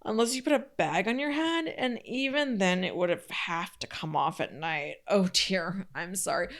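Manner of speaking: put-on snide, sneering mean girl. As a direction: fake sweet sneering apology. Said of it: "you kinda read it like a mean girl".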